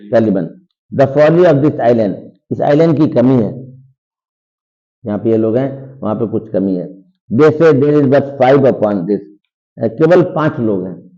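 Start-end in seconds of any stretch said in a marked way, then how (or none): 0.9-2.1 slow, louder recital of the line; slow dramatic reading. Shown as a demonstration. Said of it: "teacher reads Shakespeare line slowly". 7.3-9.2 slow, louder recital of the line; slow dramatic reading. Shown as a demonstration. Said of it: "teacher reads text slowly".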